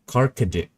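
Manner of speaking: "Carcade" in three syllables, kar-ka-dee, falling; trial pronunciation. Shown as a demonstration. Working out an unfamiliar drink name, "Carcade" as kar-ka-dee. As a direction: sound out "Carcade" with a short "dee" at the end. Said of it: "Am I supposed to say".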